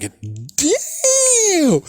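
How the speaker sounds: high, slow laughing damn; impressed laugh at her pancake comeback. Real, not acted. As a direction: savor the burn with a long laugh. Laughing at the burn.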